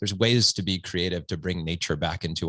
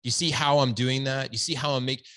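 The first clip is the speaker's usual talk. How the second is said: lightly hammed-up self-satisfied dad, a bit higher; mock preachy dad; 5 semitones higher than usual. Dad mocking himself lecturing his son, smug and a bit higher. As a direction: play the smug dad showing off his wisdom. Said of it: "I'm not saying".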